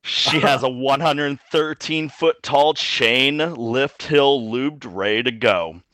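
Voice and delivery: sultry voice. Acted. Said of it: "In your sultriest voice".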